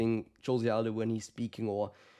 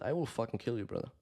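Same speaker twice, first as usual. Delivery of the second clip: menacing; 6 dB quieter than usual. Pretend. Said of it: "I would think when I face off".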